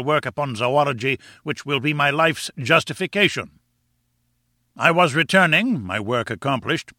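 lightly voiced self-important lecturer; pompous professor. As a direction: lecture with grand, emphatic phrasing.

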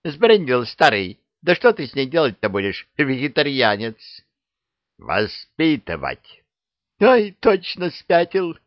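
high, loud incredulous scolding; shocked witch. Acted. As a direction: squawk like a scandalised hag. (ошарашенная ведьма)

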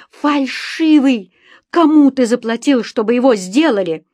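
high, loud accusing shout; outraged cry. A narrator's reading. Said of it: "закричала я". (возмущённый крик)

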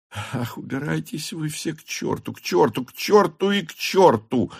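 put-on exasperated shout of an old man, pitch high; old count yelling. A narrator's reading. The count driving Berg off, exasperated yelling. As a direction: throw them all out, fed up. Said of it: "закричал старый граф".

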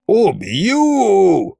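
high, drawn-out mild wail; wailed threat. A narrator's reading. Ghost to the mocking group, high wail. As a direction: wail the threat without full volume. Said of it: "завопил призрак".

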